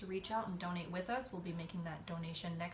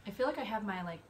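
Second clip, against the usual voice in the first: husky cold-roughened voice; hoarse from a cold. Real, not acted. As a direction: speak through a head cold. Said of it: "sexy podcast voice from my cold today".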